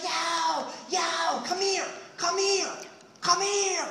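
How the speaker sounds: high, loud calls of come here; hammed-up hermit bellow; hollering. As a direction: yell across the river to wave him in. Hermit hollering him over.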